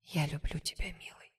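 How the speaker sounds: soft, fading whisper of love; tender whisper, almost no voice. A narrator's reading. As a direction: whisper it into his ear. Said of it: "шепчу".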